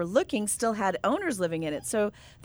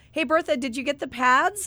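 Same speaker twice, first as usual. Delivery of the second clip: mildly raised retold call, higher pitch; out loud; 4 semitones higher than usual. Daughter to sister in Walmart shampoo aisle, out loud. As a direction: imitate a daughter blurting it publicly. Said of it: "tells the other girl out loud".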